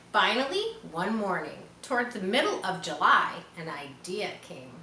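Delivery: put-on calm read-aloud storytelling for children; story narration. A narrator's reading. Teacher reading Charlotte's Web to her class, gentle narration. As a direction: read it like a teacher sharing a chapter book.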